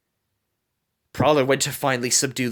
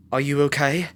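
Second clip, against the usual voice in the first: tender; 2 semitones higher than usual. A narrator's reading. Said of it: "Rebel asked Scarlet tenderly".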